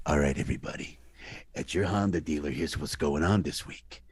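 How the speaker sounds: lightly voiced mobster ad read; a hint of a tough mob guy selling cars. Shown as a demonstration. Mobster doing a Honda ad for listeners, lightly gruff. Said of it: "if you want me to be a mobster going".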